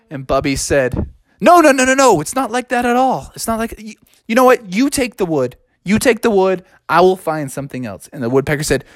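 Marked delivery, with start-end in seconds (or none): 1.4-8.1 high, hurried backing-down cub; a lightly voiced cub backing off; flustered cub. Bubby gives up the wood to the woodpecker, flustered.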